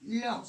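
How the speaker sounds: "Lho" alone, with LH as one sound; separate syllable. Shown as a demonstration. Teacher shows the syllable stays together, said separately. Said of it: "Essa sílaba sempre vai ficar junto".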